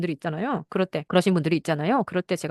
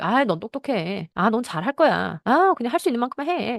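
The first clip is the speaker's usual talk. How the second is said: drawn-out parental encouragement, rising higher at the end; acted rational advising; 5 semitones higher, slower than usual. Parent advising a doubting child, coaxing. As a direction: play a parent talking a child round, stretching the words. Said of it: "이성으로 얘기하면".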